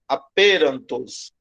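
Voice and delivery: "aperantos" said slowly and low; shown pronunciation. Shown as a demonstration. Teacher points a student to one word, slow careful pronunciation. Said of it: "é nessa palavra aqui".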